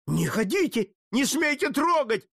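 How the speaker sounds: frantic shout. A narrator's reading. Jesuit shouting at Putilin to keep away, mild shout. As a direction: cry out to stop him touching it. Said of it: "закричал иезуит".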